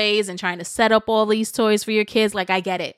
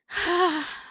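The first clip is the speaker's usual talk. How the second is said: emotional sigh; 8 semitones higher than usual. Real, not acted. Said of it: "I'm getting emotional".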